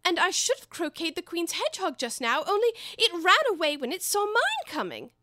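complaining. Acted. Alice complaining to the cat about the croquet game, high and whiny. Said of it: "in a rather complaining tone".

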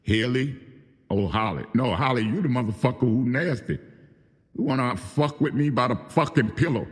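furious telling-off of a friend who betrayed him; angry rant. Real, not acted. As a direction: tear into her, voice up and pushing. Angry rant aimed at Holly.

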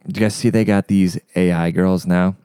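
uncomfortable from heartburn. Real, not acted. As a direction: talk through the heartburn pain. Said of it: "this heartburn is killing me".

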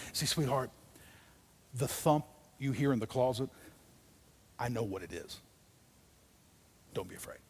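put-on calm a child at bedtime; a loving father soothing his frightened kid; gentle father. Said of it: "a father who comes into the room".

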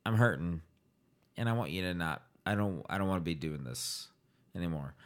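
soft, fading plea of a sick mother; weak dying mother. Retold or imitated. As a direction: let it fade out weakly. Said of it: "Maybe she said".

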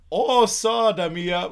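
slow, loud squeezed voice; muffled butt voice. Retold or imitated. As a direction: stretch it out, muffled and silly. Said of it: "he goes".

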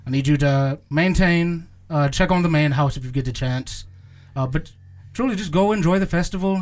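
doting gnomish teacher giving orders; gnome teacher voice. Acted. DM voicing teacher Isadora.

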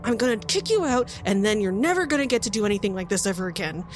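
high, fast, pushy threat; threatening bossy cultist. Acted. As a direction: threaten to kick the partner out. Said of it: "a really tense, harsh whisper between them".

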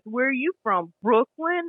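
imitating a smug teaser, lifting on the last word; mildly mocking imitation with a smirk; retold smirking question. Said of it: "he had this smirk".

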